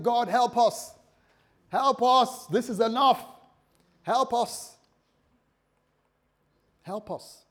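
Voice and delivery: loud, high pleading shout for help; desperate cry to God. Acted. Israelites crying out to God in slavery, loud desperate plea.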